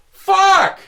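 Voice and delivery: very high, loud drawn-out yell; hammed-up howl of frustration; retold frustrated scream. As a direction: scream the curse in acted anguish. Retold reaction to eaten leftovers.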